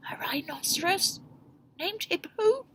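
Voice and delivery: high laughing question; laughing cry. Acted. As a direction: cry it out amused. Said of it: "Fluffy cried".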